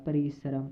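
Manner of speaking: परिश्रम repeated softly and syllable by syllable; quiet model repeat of परिश्रम; careful repeat. Shown as a demonstration. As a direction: settle on परिश्रम gently and clearly. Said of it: "परिश्रम होगा".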